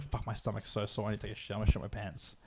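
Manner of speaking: low, hushed, talking to himself; quiet inner voice. Retold or imitated. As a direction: mutter the thought under your breath. Retold own thoughts, urgent.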